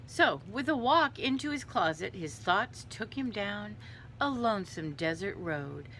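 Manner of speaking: lingering storybook read-aloud; story narration. A narrator's reading. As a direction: carry the listeners off into the tale.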